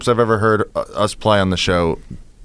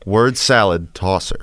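"word salad" as one unit, then "tosser"; correct emphasis; 3 semitones lower, slower than usual. Shown as a demonstration. Co-host correcting the host, "word salad" grouped before "tosser". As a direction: slowly join "word" to "salad", set "tosser" apart. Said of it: "putting the emphasis on the wrong word".

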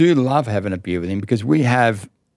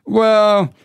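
a high, louder drawn-out well; high hesitant well; 13 semitones higher, 6 dB louder than usual. Retold or imitated. Dad stalling his son's awkward question with a high drawn well.

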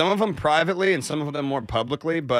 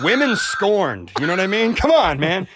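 heated rant; 6 semitones higher, 6 dB louder than usual. Acted. Mock-heated rant on women.

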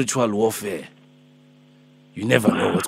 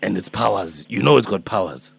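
put-on Alpheus, old man; 2 semitones lower than usual. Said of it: "I'm Alpheus, I'm Alpheus".

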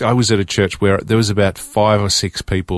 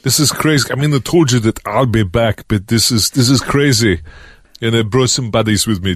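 Arnold Schwarzenegger. Retold or imitated. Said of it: "Arnold Schwarzenegger".

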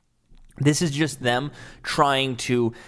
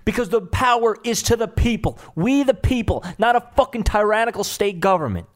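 angry retort; 3 semitones higher than usual. Real, not acted. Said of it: "I'm just angry".

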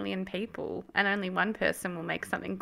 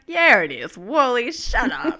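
playful telling-off; 8 dB louder, slower than usual. Retold or imitated. Retold telling Wally off.

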